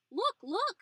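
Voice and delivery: high, eager repeated cry; excited. A narrator's reading. Old lady jumping up and down at the window, high excited cry. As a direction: bounce on the words. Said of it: "jumping up and down".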